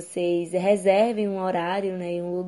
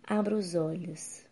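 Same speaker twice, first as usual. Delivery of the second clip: guided meditation. Acted. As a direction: guide the listener gently into calm.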